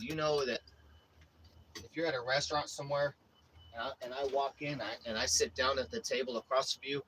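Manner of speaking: a hint of a calm mobster laying down a warning; menacing hitman. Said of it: "this is how he said it".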